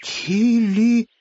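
ТИЛИ high and stretched; sounding out syllables. A narrator's reading. Hare reading the rag, ТИЛИ laboriously drawn out. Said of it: "стал читать по складам тряпочку".

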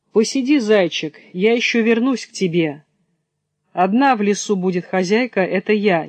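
sly fox taunting the trapped hare; gloating fox. Acted.

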